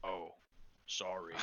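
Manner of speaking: gentle bear person. Acted. Pipsqueak speaks, voiced by GM.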